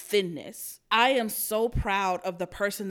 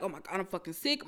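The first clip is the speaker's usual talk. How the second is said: mock sick moan; 3 semitones lower, 10 dB quieter, faster than usual. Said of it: "I'm like".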